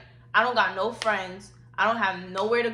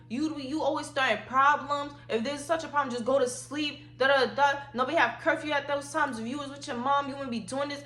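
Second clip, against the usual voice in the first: retold rant in a higher pitch; mild mock tirade, pitched up; dad going off; 4 semitones higher than usual. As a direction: imitate a fed-up dad's tirade without shouting. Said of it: "he was just going off".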